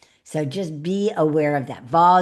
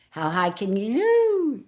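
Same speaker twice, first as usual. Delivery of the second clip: pitched higher; 4 semitones higher, slower than usual. Shown as a demonstration. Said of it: "now we got pitch".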